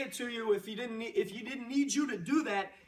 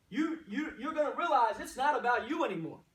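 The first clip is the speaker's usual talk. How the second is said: laughing; 2 semitones higher than usual. Real, not acted. Laughing at own joke.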